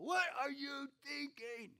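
high, slow exasperated demand; upset Abimelech. Retold or imitated. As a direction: stretch out "What" in disbelief. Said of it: "he's upset".

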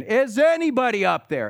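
high, loud cry for help from a cliff; hanging man shouting up the canyon; desperate yell. Retold or imitated. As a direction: call upward, panicked. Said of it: "Yells again".

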